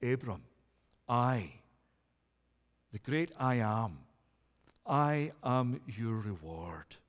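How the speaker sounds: low, slow, soft voice of God. Acted. Preacher voicing God to Abram, low and slow. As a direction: speak as God, deep and hushed.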